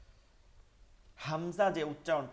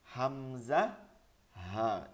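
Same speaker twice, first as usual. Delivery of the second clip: grave letter drill, dropping low on হা; deep solemn voice; much slower than usual. Shown as a demonstration. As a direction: let হা sink low and full. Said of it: "এই দুইটা গম্ভীর আওয়াজ করতে হবে".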